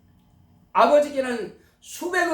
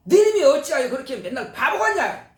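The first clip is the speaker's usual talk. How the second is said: mildly raised retold scolding; angry father; 3 semitones higher than usual. Father scolding his son for always being a fool, mildly angry. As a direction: imitate an exasperated father's telling-off. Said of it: "이렇게 막 화를 내신단".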